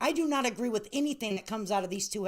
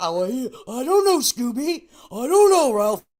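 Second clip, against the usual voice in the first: very loud, clueless, stammering mock dumb act; 3 semitones higher, 12 dB louder than usual. Mocking two people who act like they know nothing: mocking dumb act. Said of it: "they play like two dumb yo-yos".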